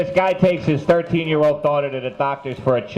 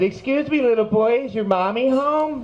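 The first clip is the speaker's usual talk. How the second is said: polite salesman; 9 semitones higher than usual. Acted. Salesman politely addresses small kid.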